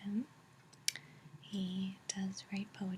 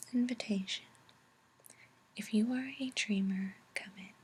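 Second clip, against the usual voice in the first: whispered verse, a little more projected; whispered poem reading; 4 dB louder than usual. A narrator's reading. Reader inviting dreamers into the book, whispered poem recital.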